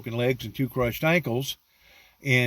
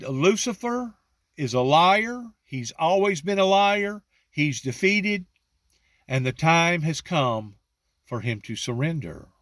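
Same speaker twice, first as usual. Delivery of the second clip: exalted proclamation; 5 semitones higher than usual. Retold or imitated. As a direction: proclaim it up high as if filled with spirit. Retold ecstatic declaration to mother.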